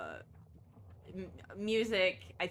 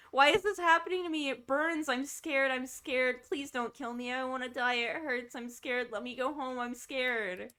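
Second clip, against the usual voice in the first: higher, hammed-up frightened pleading; mock terrified victim; 6 semitones higher, 3 dB louder than usual. Voicing the dying victim while playing, high hammed-up pleading. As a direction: plead like a terrified dying ghost, half joking.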